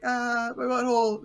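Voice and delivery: high, loud wailing in fake agony; hammed-up anguished yelling; mock pain. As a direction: cry out like a cartoon man writhing on pavement. Same comic man in pain.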